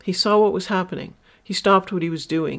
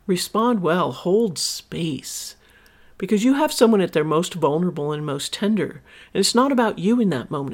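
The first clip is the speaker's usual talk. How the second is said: normal talking voice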